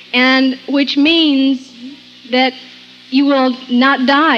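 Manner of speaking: slow, deliberate stress on "not die"; slow emphasis. Real, not acted. Preacher telling listeners slowly, stressing "you will not die". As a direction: draw out "which means that you will not die", weighing each word.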